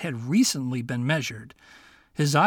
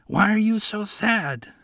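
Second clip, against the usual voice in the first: higher, light-voiced little fox; a sly young fox asking his friend; 6 semitones higher than usual. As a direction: play the clever little fox, kindly. Fox speaks to Miko.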